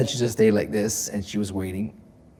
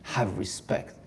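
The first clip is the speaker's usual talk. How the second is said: mock commanding; slower than usual. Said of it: "like she was ordering me to say".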